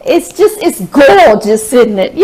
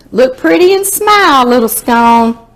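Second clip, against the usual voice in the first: high coaxing; 3 semitones higher than usual. Pretend. Coaxing the scone for a photo.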